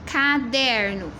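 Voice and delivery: lapiseira and caderno stretched slowly, syllable by syllable; slow syllable reading. Shown as a demonstration. Teacher imitating the child's slow syllabic reading. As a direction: sound the words out like a child. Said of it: "Ele escrevesse assim".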